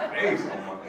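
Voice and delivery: lightly put-on phone voice; quick imitation of the woman who answered; imitated elderly wife. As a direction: mimic her odd way of saying it. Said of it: "but that's how she sounded".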